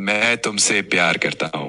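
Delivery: sexy, silky, smooth, seductive romantic delivery. Asked by a Sunrise Radio host to say a line in Hindi: smoothest voice. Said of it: "In the smoothest voice I've got".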